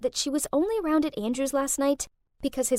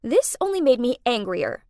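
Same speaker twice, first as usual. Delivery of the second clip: usual speaking voice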